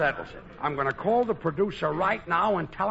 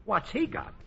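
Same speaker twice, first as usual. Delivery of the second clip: indignant echo; 7 semitones higher than usual. Acted.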